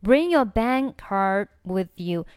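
slow model reading, ends of "bank" and "card" left silent; unreleased endings. Shown as a demonstration. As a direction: hold back the k of "bank" and d of "card". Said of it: "bank末尾还是可以不用发出声音".

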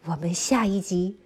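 put-on lively storytelling for little kids; reading to a toddler. A narrator's reading. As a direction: tell it brightly to a small child. Children's story narration throughout.

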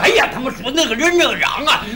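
ordinary talk, nothing marked

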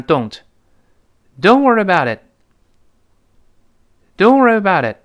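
"worry about it" linked slowly, step by step; slow linking drill. Shown as a demonstration. Teacher drills students word by word. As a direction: build the phrase up slowly. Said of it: "跟老师来读一下".

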